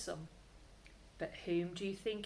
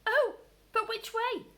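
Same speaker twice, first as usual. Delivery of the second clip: sad; 8 dB louder than usual. Acted. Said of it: "asked Peter sadly".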